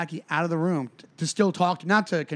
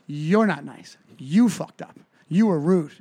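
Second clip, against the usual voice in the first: firm, punched telling-off; emphatic mock reprimand; retold scolding. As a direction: scold her point by point. Retold scolding of rude audience member.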